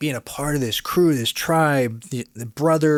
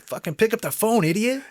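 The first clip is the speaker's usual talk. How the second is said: much higher, scornful put-on voice; mock self-scolding; 10 semitones higher than usual. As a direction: sneer at yourself like an impatient boss. Berating himself at desk.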